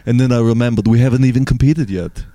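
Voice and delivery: calmer, low-key action-star impression; Arnold. Cohost telling of calling mom as the star, low-key impression. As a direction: play the bodybuilder understated, near your own pitch. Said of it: "it's a lot more low-key".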